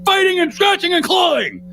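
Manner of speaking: high mock shouting coach; mock yell. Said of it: "is like".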